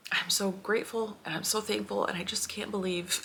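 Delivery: choked up, voice lifted and wavering with tears; fighting back happy tears; real tearful gratitude; teary. Real, not acted. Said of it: "I'm crying through this whole video".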